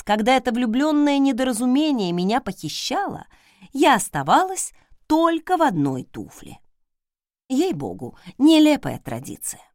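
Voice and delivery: ordinary delivery, nothing marked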